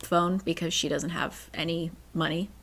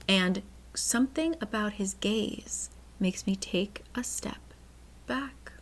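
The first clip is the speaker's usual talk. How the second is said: hushed, dramatic reading that fades away; hushed suspense; 5 dB quieter than usual. Acted. Reading about the landscaper's gaze, in hushed suspense. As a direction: drop away softly for suspense.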